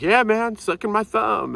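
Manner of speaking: high, mock-earnest voice; mimicking other sharers. Five sharers at the meeting, mimicked in a high mock voice. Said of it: "and they're like".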